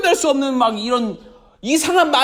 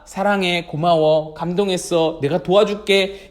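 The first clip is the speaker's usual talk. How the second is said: low, gentle, sincere delivery; tender kind words; 5 semitones lower than usual. Shown as a demonstration. Models kind words to children.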